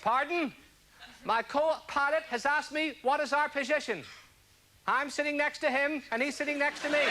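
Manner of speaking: a hint of a captain making announcements, unhurried; airline pilot impression. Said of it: "an impression of an airline pilot".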